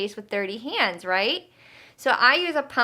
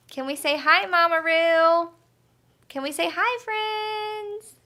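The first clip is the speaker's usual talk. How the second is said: bright greeting; 6 semitones higher, 3 dB louder than usual. Acted. Greeting puppet and kids brightly.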